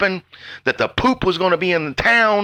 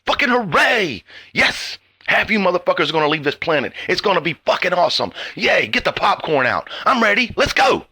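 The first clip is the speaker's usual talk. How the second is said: sarcastic cheering; 2 semitones higher than usual. Pretend.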